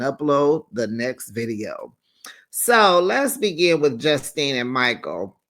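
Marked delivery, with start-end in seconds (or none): 0.7-1.9 whispered aside. Real, not acted. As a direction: whisper the words, unvoiced. Whispered end of subscribe plug.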